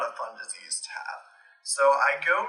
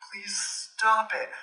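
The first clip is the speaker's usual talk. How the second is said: slow, breathless whispered plea; pleading whisper; 7 semitones higher, much slower than usual. Retold or imitated. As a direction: beg them to stop under your breath.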